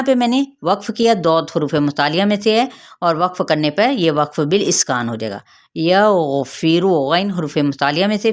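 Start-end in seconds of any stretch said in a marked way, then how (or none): 5.8-6.9 यग़फिरु with a short final रु; don't stretch the रु in यग़फिरु; slow recitation demo; short final vowel. Shown as a demonstration. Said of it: "फिरू की हरकत को लंबा नहीं करेंगे".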